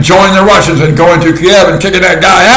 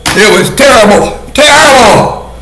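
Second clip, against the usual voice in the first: mock horror; 5 semitones higher than usual. Mock outrage at missing.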